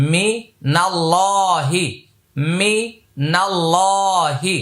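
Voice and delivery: মিনাল্লাহি slowly, with a thick L and held vowel; long, heavy lam. Shown as a demonstration. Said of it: "এটা এক আলিফ টান হবে, মোটা হবে". (মিনাল্লাহি-র লাম মোটা করে এক আলিফ টান)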